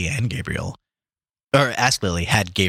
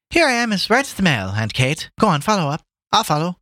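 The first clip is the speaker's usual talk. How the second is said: high, acted call from a distance; 10 semitones higher than usual. Guest to his aunt from the dark, high calling out. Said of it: "called out Gabriel from the dark".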